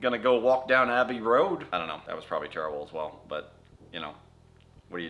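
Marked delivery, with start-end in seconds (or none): 0.0-1.7 put-on English accent. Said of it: "work on my English accent".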